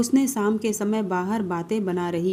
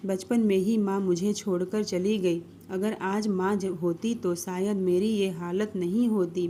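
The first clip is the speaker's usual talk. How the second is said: tearful; 4 dB quieter than usual. Acted. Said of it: "मत रो श्रेया".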